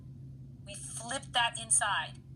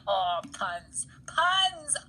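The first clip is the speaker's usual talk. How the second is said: playful whisper; 2 semitones higher, 3 dB louder, much slower than usual. Real, not acted. Teacher jokes about puns after laugh.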